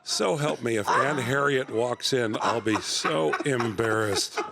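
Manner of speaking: low, measured TV-hero voice; halting, deadpan superhero come-on; Adam West. Acted. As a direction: woo her like a pompous TV hero. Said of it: "It's Adam West".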